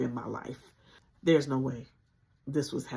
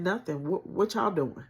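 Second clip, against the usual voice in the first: higher, breezy and carefree; forced playful; 5 semitones higher, 4 dB louder than usual. Retold or imitated. To her mom, a put-on playful casual tone. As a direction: cover the fear with cheer. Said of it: "the most playful voice I could muster".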